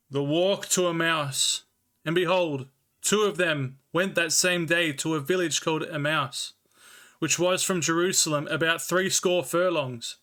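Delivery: measured, slightly slowed scripture reading; Bible reading. Acted. Streamer reading the Bible to chat, measured and slowed. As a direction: read the King James text with care.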